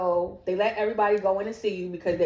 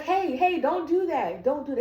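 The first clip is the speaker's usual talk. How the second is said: nurse's scolding; 5 semitones higher than usual. Retold or imitated. Nurse stops child waking patient.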